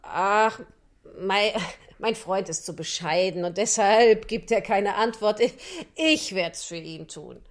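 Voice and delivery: lightly voiced sly fox; loud smooth-talking fox.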